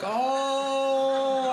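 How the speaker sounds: high, loud startled "Oh"; a shocked cry; startled yelp. Retold or imitated. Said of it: "I was like".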